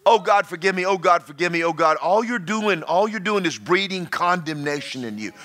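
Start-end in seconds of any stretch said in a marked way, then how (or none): 0.1-2.0 half-sung, whining mock prayer; mock pleading prayer. Preacher mocking a guilty churchgoer's begging prayer, sing-song whine. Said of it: "You, you're in this".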